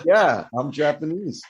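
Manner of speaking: slow, deadpan going along with it; playing along. Joking he'd pretend to be Japanese, slow deadpan. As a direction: roll with it slowly.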